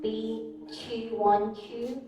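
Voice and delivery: each digit slow and separate, "two one two" rising; slow, deliberate US phone number; slow American digits. Shown as a demonstration. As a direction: read the US number slowly, group by group. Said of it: "and for U S".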